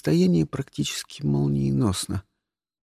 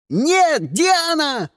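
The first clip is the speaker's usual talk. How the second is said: alarmed shout; 11 semitones higher, much slower than usual. Acted. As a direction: yell her name in panic. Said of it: "раздался крик Кристиана".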